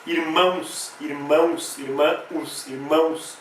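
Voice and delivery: "irmãos" with the O said as U; final U sound. Shown as a demonstration. Teacher demonstrating O sounding as U, final U sound. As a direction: repeat "irmãos" carefully, O gliding to U. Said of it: "com som de U".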